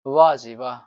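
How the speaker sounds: a loud, cheeky cry of "वाह जी वाह"; loud mock praise. Shown as a demonstration. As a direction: shout it like a mischievous boy praising everything. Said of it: "बोलता है ना?". (शरारती लड़के की तरह ज़ोर से "वाह जी वाह")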